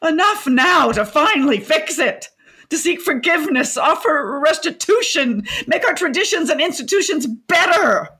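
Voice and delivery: high, fervent appeal; stirred-up, high-pitched speechifying; impassioned plea. Acted. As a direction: plead for change with rising fervour. Impassioned plea for national repair.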